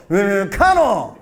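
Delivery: slow "음, 카노" with a laugh; imitating clipped order. Comedian copies others' order, slow and amused. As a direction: drag "음" then drop "카노" slowly. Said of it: "자기도 가서".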